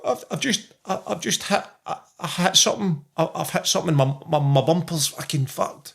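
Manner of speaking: high, halting, stammering in shock; shocked son. Retold or imitated. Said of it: "you can hear the shock in his voice".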